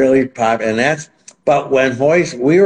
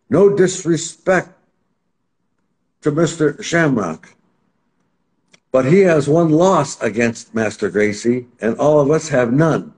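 slow earnest declaration; 5 semitones higher than usual. Retold or imitated. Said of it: "Harold Howard gets up".

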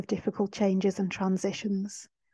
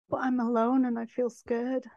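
slightly raised, mildly tearful voice; tearful retold confession; 3 semitones higher than usual. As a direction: confide it, holding back tears. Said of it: "I was crying to her".

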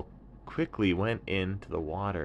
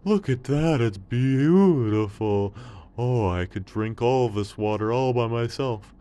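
high, loud delighted camel; loud, joyful camel seeing water; excited camel; 6 semitones higher, 11 dB louder than usual. Acted. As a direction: gasp at the sight with joy. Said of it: "the camel was so happy".

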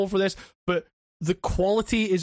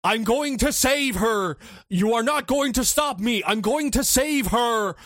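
hammed-up hero line; 4 semitones higher than usual. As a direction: ham up the actor's big line. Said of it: "there's a bit where he goes".

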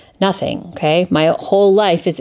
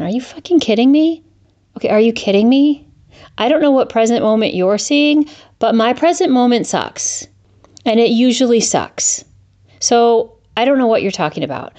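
incredulous rant; 5 semitones higher than usual. Retold or imitated. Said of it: "I'm listening to these speakers going".

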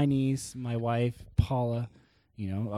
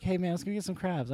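mock Baltimore accent; 5 semitones higher, 5 dB quieter than usual. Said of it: "that accent is called the Arbutin accent".

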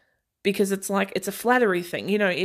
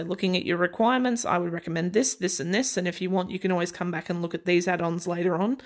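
lightly lowered sales-advisor voice; a hint of assured sales patter; confident, assured; faster than usual. Shown as a demonstration. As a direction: keep it firm and even, no lift at sentence ends. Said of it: "sounding confident, sounding assured".

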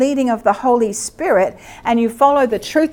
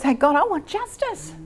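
demo prayer; 5 semitones higher than usual. Shown as a demonstration. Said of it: "what we've got to start learning to do is".

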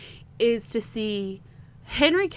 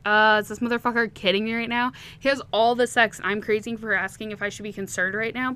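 louder, mildly indignant mock inner voice; kind of mad; 4 dB louder than usual. Podcaster voicing a character's annoyed thoughts at being questioned, mildly mad. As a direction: act out an affronted inner rant, louder at first. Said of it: "he gets kind of mad about her asking".

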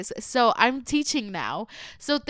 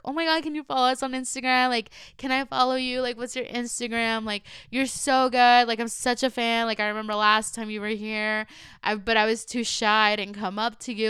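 imitating excited kids. Middle schoolers asking for Instagram.

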